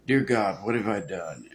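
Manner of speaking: lightly acted dawning horror; understated stunned self-reproach; horrified colonel. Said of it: "kinda like the colonel at the end of the bridge".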